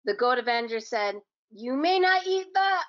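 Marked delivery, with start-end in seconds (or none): 1.5-2.8 high, forceful hero warning; stern hero voice. Acted. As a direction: warn the monster like a hero. Goat Avenger confronts the monster.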